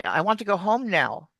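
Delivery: "now" lifted as if asking; question-like intonation. Shown as a demonstration. Teacher showing what confuses Americans, statement turned questioning on "now". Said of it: "it sounds like a question".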